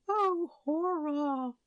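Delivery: high, slow outcry; horrified. A narrator's reading. Queen crying out in horror. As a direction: gasp it out in horror. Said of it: "cried the queen".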